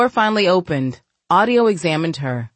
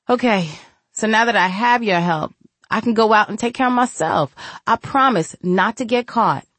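lightly voiced young woman; 5 semitones higher than usual. Farah's dialogue, voiced.

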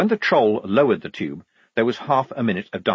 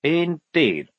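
higher, slightly nervous lieutenant; 7 semitones higher than usual. A narrator's reading. Lieutenant humouring the devout recruit, mildly nervous. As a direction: agree with a touch of unease. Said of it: "said Blouse nervously".

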